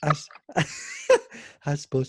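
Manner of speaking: put-on leftover light Russian accent. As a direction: slip back into the Russian accent. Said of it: "You got stuck in the accent".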